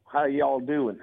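folksy Texan greeting; Texas accent. Shown as a demonstration. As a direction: put on a Texas drawl. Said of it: "can you do a Texas?".

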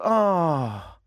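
long, falling crowd "aah"; collective "ah". Retold or imitated. Host imitating onlookers as balloon disappears, collective falling "aah". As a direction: imitate a crowd's drawn-out sigh. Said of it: "there was this collective".

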